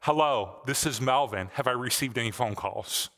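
mock-innocent, unruffled father; calm. Father calmly asking an exasperated man for messages, calm. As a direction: say it evenly, as if nothing had happened. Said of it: "the father calmly said".

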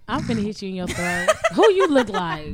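laughing. Real, not acted. Laughing while teasing friend.

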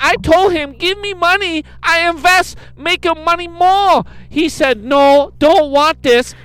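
hammed-up read of a scam letter; reading a scam email. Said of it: "It's broken English, her email".

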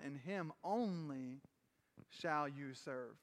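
slow scripture. Acted. Quoting scripture, slowing.

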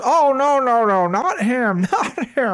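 high, laughing, breezy "my husband's dead"; laughing while telling. Retold or imitated. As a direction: laugh through it as if it's no big deal. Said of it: "she goes".

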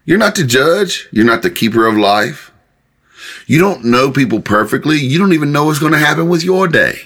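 high-pitched preacher voicing God's challenge; challenging rebuke. God to people boasting of their plans, challenging. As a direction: question their presumption, pitch lifted. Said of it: "And God's saying".

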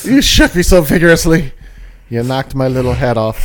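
troll voice. Pretend. Troll complaining.

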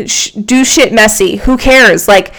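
loud, pushy pep talk; tough love. Real, not acted. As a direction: shove them into action. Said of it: "tough-love pep talk to listener".

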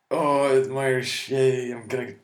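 high, loud hammed-up Irish reveller cheer; mock drunk reveller. Mocking a reveller in a leprechaun hat, hammed-up high cheer. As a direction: whoop it up like a giddy paddywhacker.

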